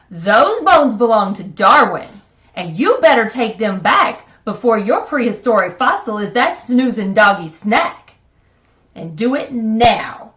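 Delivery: stern order. Acted. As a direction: lay down the law to her son. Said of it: "ordered Mama".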